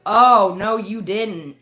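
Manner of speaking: loud shocked oh, then no, you didn't. Retold or imitated. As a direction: gasp at the rudeness, then scold. Friend reacts to rude server.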